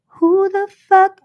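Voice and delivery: high, loud blurted question; loud mock outburst. Answering her own chant with a loud outburst. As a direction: blurt it out sharply.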